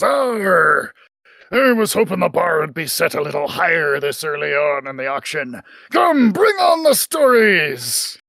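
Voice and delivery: gruff pirate captain calling across the room; hearty sea captain hailing a stranger. Acted.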